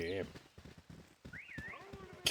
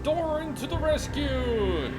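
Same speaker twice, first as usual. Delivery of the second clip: excited cheer; 10 semitones higher, 3 dB louder than usual. Real, not acted. Cheering NPC arrival.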